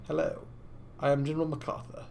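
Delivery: a light put-on British officer; mock British accent. Imagining someone behind him, soft mock British accent. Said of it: "Why does he have a British accent?".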